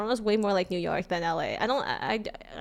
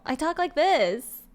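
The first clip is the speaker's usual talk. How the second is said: slow Californian drawl; 4 semitones higher, 4 dB louder, slower than usual. Real, not acted. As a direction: draw it out like a Californian. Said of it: "a little bit of Californian drawl".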